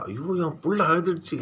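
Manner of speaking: high, wailing cry of a worried mother; mother's lament. Acted. Mother cries out over her weeping child, high wail. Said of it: "அந்த அம்மா பாடுகிற மாதிரி".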